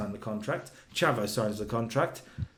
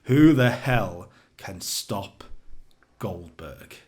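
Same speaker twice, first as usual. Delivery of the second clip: slow, loud Southern commentator's drawl; 2 semitones lower, 6 dB louder, much slower than usual. Retold or imitated. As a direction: stretch it out like a Southern announcer. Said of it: "in his southern drawl".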